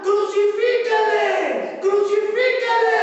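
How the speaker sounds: crowd shouting crucify. Retold or imitated. Preacher building to the mob's crucify cry, full drawn-out shout. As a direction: roar it like the mob at full force.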